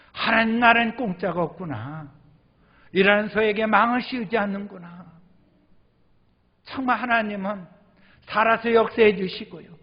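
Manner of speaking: grateful believer realizing God's care; fervent realization. Retold or imitated. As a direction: burst out with grateful conviction. Inner realization voiced as quote.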